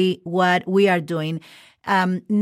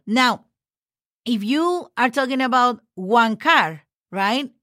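ordinary talk, nothing marked

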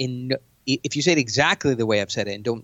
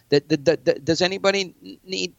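stumbling, halting the opener, voice pitched higher; nervous stutter; 7 semitones higher than usual. Shown as a demonstration. His first nervous meeting with investors, a stammered opener. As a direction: trip over the words like a first-timer. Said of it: "I stuttered".

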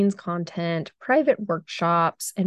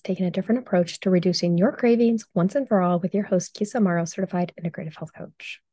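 quick, upbeat show-open read; podcast intro announcer; faster than usual. Acted. Host opening her podcast for listeners, brisk announcer read.

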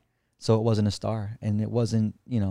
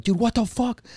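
much higher, startled outburst; shocked; 11 semitones higher than usual. Retold or imitated. Friends freaking out at the UFO, high shocked yelp. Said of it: "they're like".

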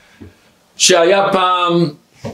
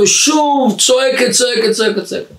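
raised pitch, repetitive rattle; mock nagging yell; 8 semitones higher than usual. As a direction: chant it high like endless yelling. Mimics her repeated yelling. (טון גבוה וחזרתי)

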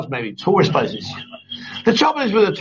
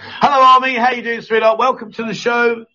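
enthusiastic greeting; 6 semitones higher than usual. Real, not acted. Host greets guest on show.

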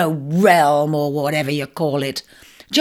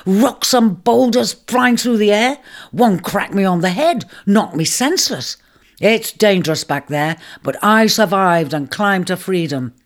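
vivid dramatic telling; 4 semitones higher, 3 dB louder than usual. Acted. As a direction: paint the catastrophe for him. Ram recounts earthquake vividly.

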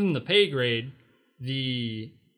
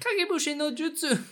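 anime attack shout; 13 semitones higher than usual. Pretend.

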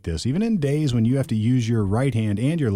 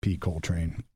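sarcastic mutter; 4 semitones lower, 4 dB quieter than usual. Retold or imitated. Sarcastic aside to the cop.

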